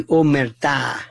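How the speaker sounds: omerta with the last syllable stressed, o-mer-TA; stress on final syllable. Shown as a demonstration. Host naming the mob's code, omerta said o-mer-TA. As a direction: end omerta on a strong TA. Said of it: "not omerta, but omerta".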